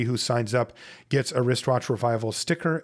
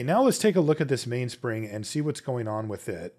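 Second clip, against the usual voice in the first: ordinary delivery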